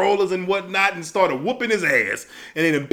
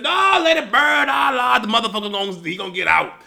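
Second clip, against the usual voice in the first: mock panicked yell; 2 semitones higher, faster than usual. Firemen in the truck yelling at each other, mock panicked shout. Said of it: "They in the back of the truck screaming".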